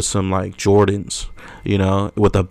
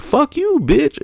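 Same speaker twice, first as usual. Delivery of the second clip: mock yell; slower than usual. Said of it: "I was like".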